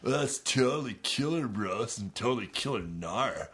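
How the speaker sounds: lightly voiced stoner hippie. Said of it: "In the hippie voice".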